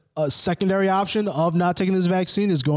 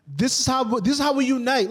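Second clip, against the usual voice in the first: 1 sarcastic; 7 semitones higher than usual. Real, not acted. Sarcastic higher rise.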